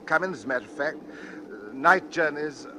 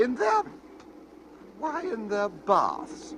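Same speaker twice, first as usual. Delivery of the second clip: high startled, then slowed question; 7 semitones higher, slower than usual. Acted. Passenger alarmed by talk of baths, startled. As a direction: catch on the word in alarm.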